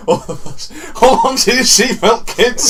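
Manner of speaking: high, loud, slow, laughing; mock pilot announcement. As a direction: boom it out like a cheeky pilot.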